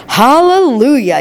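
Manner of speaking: high, slow, drawn-out hallelujah; joyful yell. A narrator's reading. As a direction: stretch it out like a jubilant old man. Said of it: "yelled Grandpa Joe".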